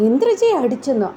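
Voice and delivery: shocked disbelief. Retold or imitated. Surya hears Nandini slapped Indrajaa, shocked disbelief. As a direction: pitch jumps up high in disbelief. Shocked reaction to news of slap.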